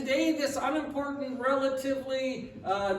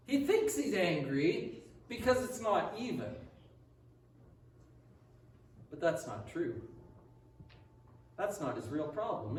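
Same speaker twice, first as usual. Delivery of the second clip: hushed sermon point; 5 semitones lower, 5 dB quieter than usual. Acted. Preacher to congregation, softly revealing the real problem. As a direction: draw the room in quietly. Quiet reflective preaching turn.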